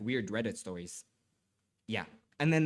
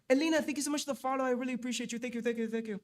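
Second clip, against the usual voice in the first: excited thanks; 10 semitones higher, much faster than usual. Real, not acted. Thanking a new follower.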